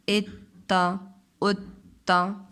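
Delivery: "उत्ता" drawn out very slowly with a doubled त; slow tashdeed demo. Shown as a demonstration. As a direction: hold the त before releasing. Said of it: "same इसी तरीके से". ("उत्ता" को बहुत धीरे, त दोहराकर)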